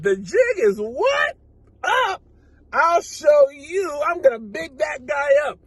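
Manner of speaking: mock-defiant shouted comeback with a rising "what?"; defiant retort. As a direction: throw it back as a cocky challenge. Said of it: "went right back into that car and said".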